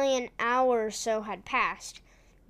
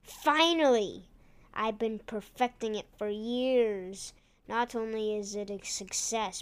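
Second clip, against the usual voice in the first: lightly voiced gloating villain; bad guy voice. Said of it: "He said in a bad guy voice".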